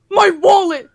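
loud alarmed yelp; panicked cry. Retold or imitated. Dad realising his wallet is gone, loud panicked cry. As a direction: blurt it out in sudden panic.

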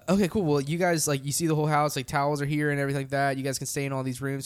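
lightly imitated sweet Southern host; a touch of easygoing Southern hospitality; sweet Southern accent. Host showing the band round the house, lightly sweet Southern accent. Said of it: "in his real sweet Southern accent".

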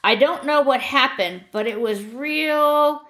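a hint of an eerie trance; strange trance-like tone. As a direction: sound half-absent, as if remembering in a daze. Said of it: "His voice took on a strange trance-like tone".

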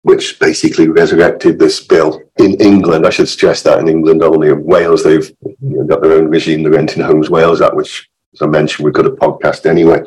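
hoarse, croaky from illness; rough, croaky voice getting over illness. Real, not acted. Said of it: "my croaky voice".

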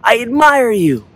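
high, slow drawn-out call; echoed yell. A narrator's reading. Echo returns the father's words, calling out. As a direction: send the call back like an echo. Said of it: "he hears back".

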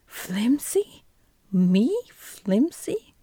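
a touch of outrage kept inside a whisper; indignant whispered cry, stretched out slowly; whispered rage. Acted. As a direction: Jack bristling at the insult, in a hushed rage. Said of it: "cried Jack in a rage".

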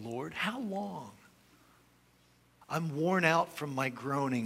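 earnest reading of a lament psalm; prayerful psalm reading; scripture reading. Acted. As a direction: read the lament with pleading feeling. Reads lament psalms with feeling.

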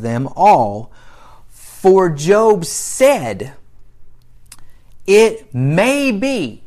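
emphatic Bible reading with stretched key words; scripture reading. Acted. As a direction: read the story out to the congregation. Reads scripture aloud to congregation.

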